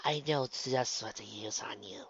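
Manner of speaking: slow, soft, insinuating; knowing purr. Acted. Ella promising Luna a treatment, softly knowing. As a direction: let it out slowly and softly. Masseuse soothingly hints at devices.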